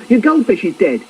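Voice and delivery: high-pitched urgent announcement; shouting. Acted. Dad waking child with bad news, mock urgent shout. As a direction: call out alarming news. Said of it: "he shouts".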